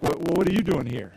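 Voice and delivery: soft, quiet "what are you doing here" with you stressed; a surprised look at an outsider; puzzled stare. Shown as a demonstration. Stranger in a room, quietly puzzled at you. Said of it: "people are looking at you like".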